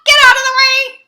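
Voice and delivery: very high, loud, fast squeal; tiny land crab squeaking with all its might; shrieky little creature voice, high and quick; squeaked. A narrator's reading. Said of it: "And the land crab squeaked".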